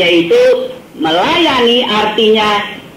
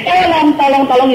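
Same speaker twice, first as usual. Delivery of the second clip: higher, thin little cry of "Tolong"; high mock cry for help; 5 semitones higher than usual. The tiny fish crying out for help in a high voice. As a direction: squeak it like a small fish calling.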